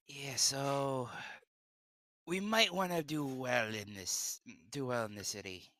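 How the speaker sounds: put-on a light Mexican accent; lightly put-on Mexican accent. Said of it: "does he sound more Indian when he's trying to do a Mexican accent".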